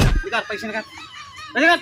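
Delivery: put-on shrill drunken yell for money; drunk shouting. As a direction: screech the demand for cash. Cop demanding money, shouting.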